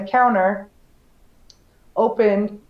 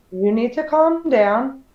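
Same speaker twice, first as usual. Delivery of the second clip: calm, slow; 2 semitones higher, slower than usual. Retold or imitated. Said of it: "I took a deep breath".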